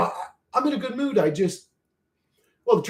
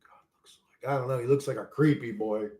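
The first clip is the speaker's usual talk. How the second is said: hushed aside; 2 semitones lower, 6 dB quieter than usual. Real, not acted. Hushed aside about God.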